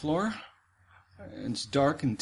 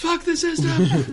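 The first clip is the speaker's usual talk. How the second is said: snarling punk; 4 semitones higher, 5 dB louder, slower than usual. Pretend. Mocking rebel yell.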